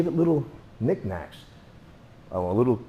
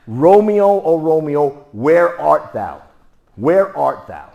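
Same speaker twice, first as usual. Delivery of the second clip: louder, higher, slow drawn-out call; hometown Juliet; 4 semitones higher, 10 dB louder, slower than usual. Retold or imitated. Teacher showing hometown version, loud slow call. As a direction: call for Romeo loud and stretched. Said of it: "how would they say that where I was born".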